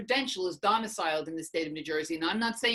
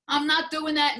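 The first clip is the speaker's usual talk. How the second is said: higher, louder and final, NOT hit hard; flat refusal; 7 semitones higher, 5 dB louder than usual. Retold or imitated. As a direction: slam the door on the idea. Retold refusal to husband.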